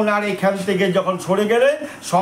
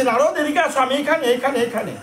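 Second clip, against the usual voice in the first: calling out; 6 semitones higher than usual. Acted. Krishna calls Narada again.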